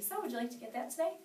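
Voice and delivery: steady, assured question; calm and certain closing question; confident ask. Shown as a demonstration. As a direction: ask like you expect a yes. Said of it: "Ask for the order like this".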